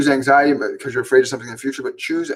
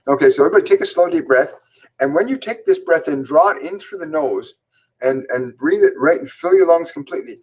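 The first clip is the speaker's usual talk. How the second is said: breathing instructor; 3 semitones higher than usual. Acted. Leads a breathing exercise.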